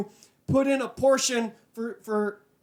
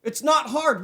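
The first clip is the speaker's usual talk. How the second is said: higher, heated venting; mad rant; 3 semitones higher than usual. Real, not acted. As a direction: let the anger out at broke friends. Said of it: "I'm just so mad right now".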